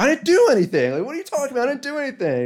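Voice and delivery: high, loud panicked denial; mock the thief screaming his innocence; shrill-pitched panicked yelling; retold screaming. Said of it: "the guy's, like, screaming".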